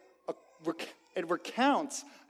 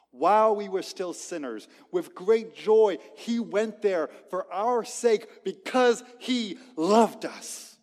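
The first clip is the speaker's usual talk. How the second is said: fervent preaching; 3 semitones higher, 5 dB louder than usual. Real, not acted. Preacher proclaiming the cross to the congregation, fervent and loud. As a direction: preach the climax with full conviction. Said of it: "climax of the sermon".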